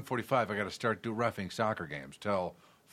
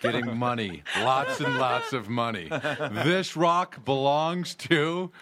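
higher, louder, laughing pitchman; 4 semitones higher, 5 dB louder than usual. Pretend. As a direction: sell it like a cheesy commercial. Sellout astronaut ad pitch.

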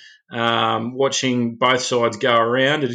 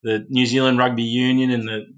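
mock-grateful, dry and understated; a touch of sarcasm, barely a laugh at the end; sarcastic thanks. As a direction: thank them as if you mean the opposite, lightly. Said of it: "the sarcasm in my voice".

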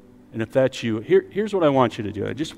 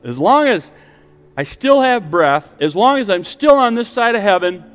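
raised, insistent preaching voice; emphatic preaching; 5 semitones higher, 4 dB louder than usual. Acted. Preacher offering the congregation good news, emphatic preaching. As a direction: drive the hope home with rising emphasis.

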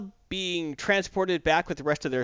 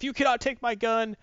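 higher, indignant protest; mock indignant Fury; 10 semitones higher than usual. Ticked-off Fury yelling at Lois, higher mock indignation. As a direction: squawk it like a ticked-off warrior. Angry Fury reclaims gun.

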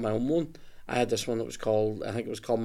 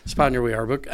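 spit take; 2 semitones higher than usual. Real, not acted. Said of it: "I just spat everywhere".

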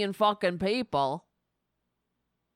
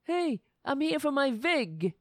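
mob collector voice; 4 semitones higher than usual. Retold or imitated. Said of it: "dictator-envying con man".

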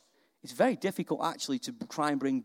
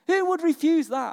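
louder repeat; 11 semitones higher, 5 dB louder than usual. Shown as a demonstration. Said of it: "I mean, who would refuse that?".

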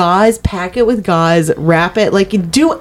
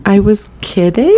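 lilting, rising excuse; feigned backpedaling. Pretend. Caught gossiping about Colin, a sheepish take-back. Acted backpedal after being overheard.

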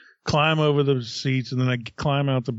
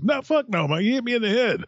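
much higher, outraged retold shout; hammed-up yelling father; 8 semitones higher than usual. Son re-telling the story with his father yelling at the kid, mock shout. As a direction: play the dad bellowing at the driver.

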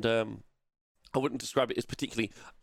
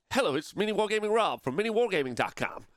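hammed-up web show greeting, pitched up; parody channel intro; 8 semitones higher than usual. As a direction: sing out the well-known slogan, stretching the end. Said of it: "we all know how to say it".

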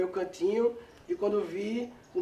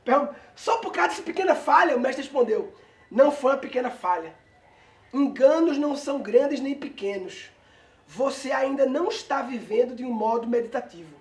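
parable reading; 2 semitones higher than usual. A narrator's reading. Reads a written parable aloud.

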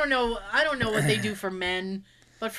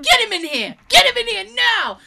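high, loud demand that grows louder; mock furious demand; 10 semitones higher, 10 dB louder than usual. Ordering the nurse to fetch the doctor, loud mock fury. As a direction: demand the doctor come in, hammed up.

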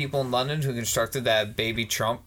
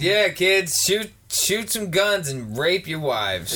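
mock rally cry; 6 semitones higher, slower than usual. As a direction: ham it up like a gung-ho politician urging kids on.

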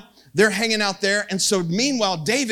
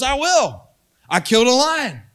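raised, punchy, boastful challenge; trash talk; 3 semitones higher, 4 dB louder than usual. Retold or imitated. David volunteering to fight the giant, trash-talking. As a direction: act out a cocky fighter's boast. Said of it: "that was trash talking back in ancient Hebrew".

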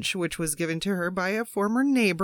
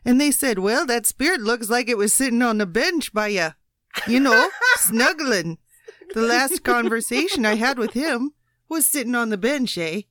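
put-on Canadian accent; 3 semitones higher than usual. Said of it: "that explains the Mexican-Canadian accent".

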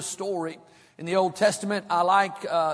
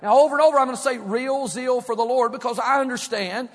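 building preaching fervor. Acted. Preacher urging the church toward zeal, building. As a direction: build the passion phrase by phrase.

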